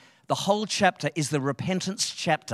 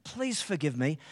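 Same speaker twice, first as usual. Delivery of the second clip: remorseful wife; 4 semitones higher, 5 dB quieter than usual. Retold or imitated.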